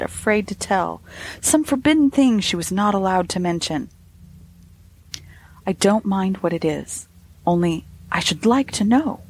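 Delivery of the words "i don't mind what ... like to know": encouraging. Acted. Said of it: "I said encouragingly".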